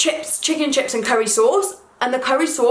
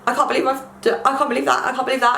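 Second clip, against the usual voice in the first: higher-pitched, repeating in mock distress; retold near-tearful panic; 4 semitones higher, faster than usual. Driving away from the car park upset, retold panic. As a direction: replay mild panic, voice lifted.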